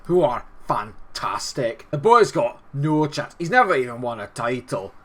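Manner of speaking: broad Scottish voice, taunting the rival team; Scottish accent. Acted. YouTuber opening his video in a mock Scottish accent. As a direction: play a cocky Scotsman talking down the opponent. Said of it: "give me an excuse to do a Scottish accent".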